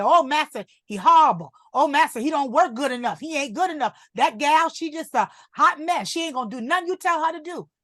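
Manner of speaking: pleading to master. Retold or imitated. Voices mother downplaying children.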